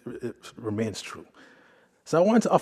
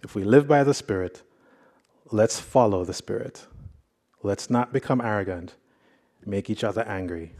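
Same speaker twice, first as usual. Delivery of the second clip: scripture reading. Acted. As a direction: read the passage aloud to the congregation with weight. Reads scripture passage aloud.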